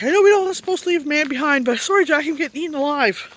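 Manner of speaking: half-joking desperate plea to Jack; retold plea. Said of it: "Now I was telling Jack".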